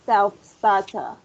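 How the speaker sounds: Self-starter said slowly and clearly; pronunciation drill. Shown as a demonstration. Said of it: "read out loud the word".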